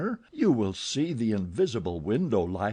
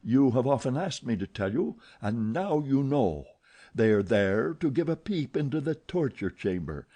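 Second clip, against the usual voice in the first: roaring anger; 3 semitones higher than usual. Acted. Eric roaring at Christine about the window. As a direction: roar it at her. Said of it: "the angry voice roared".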